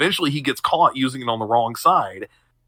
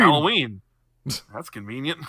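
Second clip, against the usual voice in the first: Creed quote. Retold or imitated. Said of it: "that talking head of him going".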